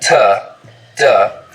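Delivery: t, duh with the tongue blade; flat blade contact on t and duh. Shown as a demonstration. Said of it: "for things like T and D sounds".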